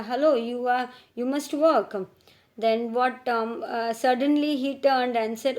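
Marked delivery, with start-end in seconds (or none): 0.0-1.9 teasing. Retold or imitated. Teasing quote, raised.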